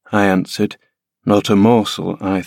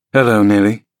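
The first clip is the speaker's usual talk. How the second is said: a louder, hearty hail across the room; called greeting; 4 dB louder than usual. Acted. Heathcliff greets Nelly arriving with his son, calling out. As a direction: call out to Nelly in a rough, ringing voice. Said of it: "cried Mister Heathcliff".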